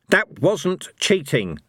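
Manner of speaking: put-on old hero growling back at Fate; growled. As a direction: grind out the denial. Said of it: "Cohen growled".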